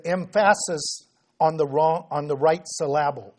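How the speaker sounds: "emphasis" stressed on its middle, em-FASS-is, and "syllable" as sil-LAB-le; joke misplaced stress. Shown as a demonstration. Preacher joking about getting the syllable wrong, "emphasis" and "syllable" stressed mid-word. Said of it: "if you get it on the wrong one, it'll sound funny".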